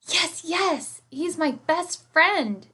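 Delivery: high, loud joyful shout; girl finds her lost bear, loud high shout. A narrator's reading. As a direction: call out running with relief. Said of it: "shouted Lisa".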